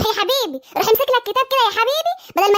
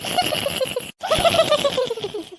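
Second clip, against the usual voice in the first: high, long peal of giggles; gloating laugh; 5 semitones higher than usual. Acted. Sister laughing at brother's failed exam, high gloating laughter. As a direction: laugh on and on at their misfortune. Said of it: "هتشمتي في اخوكي ولا ايه؟".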